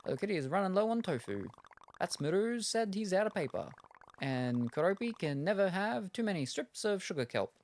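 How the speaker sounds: high chirpy character voice, busy and flustered; cute game character. Acted. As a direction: read the shopkeeper lines high and fussy. Reading game character dialogue.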